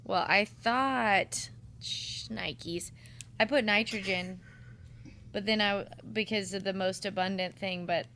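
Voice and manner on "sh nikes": whispered to herself; whispering. Real, not acted. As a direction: hush the curse under your breath.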